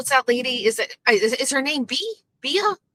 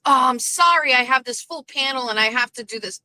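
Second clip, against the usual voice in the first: mocking Brian; 4 semitones higher than usual. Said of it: "Brian plays victim".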